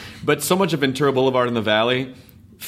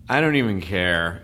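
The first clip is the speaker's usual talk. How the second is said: slow, lower, couldn't-care-less drawl; lazy Valley apathy; 6 semitones lower, slower than usual. Acted. Host imitating uncaring Valley speakers, lazy drawl. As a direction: drop it low and slow, utterly indifferent. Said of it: "created that sort of lazy".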